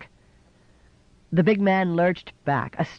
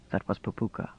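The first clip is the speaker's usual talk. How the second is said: lower, much softer and mild; almost mildly; 6 semitones lower, 8 dB quieter, faster than usual. A narrator's reading. Tawiri naming Nichol's breach, almost mildly. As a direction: say it gently, without heat. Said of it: "almost mildly".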